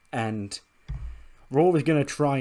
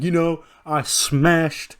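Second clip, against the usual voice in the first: boastful tribal chief; 3 semitones higher than usual. Acted. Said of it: "Kiko's like".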